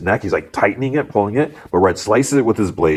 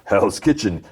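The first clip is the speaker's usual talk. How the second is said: slightly raised, put-on villain echo; mocking echo; 3 semitones higher than usual. Gang boss echoes the lawyer's hometown to his men, mocking. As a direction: repeat it back in mild mockery.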